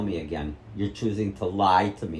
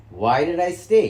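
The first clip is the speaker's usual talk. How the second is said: louder, higher demand; raised voice; 6 semitones higher, 7 dB louder than usual. Real, not acted. Son confronting his mother, raised and sharp. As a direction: push the question at her.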